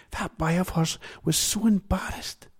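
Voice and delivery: put-on chatty checkout girl gossiping. A narrator's reading.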